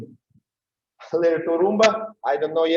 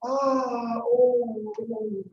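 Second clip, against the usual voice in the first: startled cry; 5 semitones higher, much slower than usual. Retold or imitated. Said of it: "somebody pushed me".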